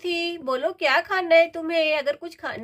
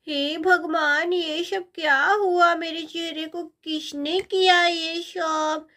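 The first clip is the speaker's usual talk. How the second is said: drawn-out, slow cry of dismay; dismayed wail; slower than usual. Acted. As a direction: wail in shock at your own face. Boy sees his painted face. (हैरानी से विलाप)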